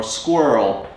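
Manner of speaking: squirrel with the R slurred. Shown as a demonstration. Showing a co-teacher my squirrel, slurred R. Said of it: "I'm slurring my R a little bit more".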